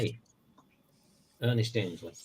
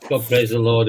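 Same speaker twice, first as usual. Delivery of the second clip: mock preacher shout; 6 dB louder than usual. Mocking preacher exclamation.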